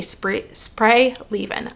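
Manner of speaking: slow, whispered stumble; tripping over words. Real, not acted. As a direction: fumble the words out. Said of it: "I had a hard time getting that out there".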